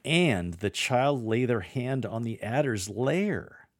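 rising shock. Shown as a demonstration. Lector delivering the shocking line, with rising astonishment. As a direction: lift into disbelief on "And". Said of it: "Raise your tone and facial expression at the ongoing shock".

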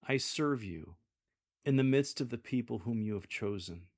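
mean every word; sincere. Shown as a demonstration. Solomon to God, sincere and humble. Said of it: "Use a sincere tone".

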